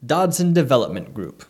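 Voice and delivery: upbeat sponsor announcement; ad read. Acted. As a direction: read it like a radio ad.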